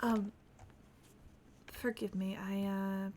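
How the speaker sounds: Shiloh the escaped sailor, quiet and reflective; in-character sailor telling his story. Acted. Roleplay character quietly telling other players his backstory, subdued. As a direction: softly recount the escape, a touch wistful.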